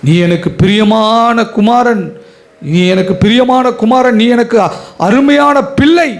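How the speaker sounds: fervent divine plea. Acted. God calling the son beloved.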